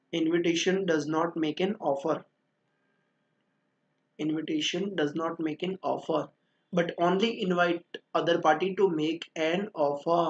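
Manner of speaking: very slow, word-by-word dictation. Shown as a demonstration. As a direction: give them time to write each word. Dictating the definition from the book.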